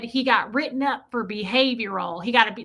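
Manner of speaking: mimicked country accent; imitated thick accent. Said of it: "this woman had a really thick accent".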